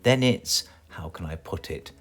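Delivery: high, stern wizard warning; wizard's threat. Acted. Wizard warns Mister Mean, sternly mock-threatening. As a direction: wag a finger as the wizard.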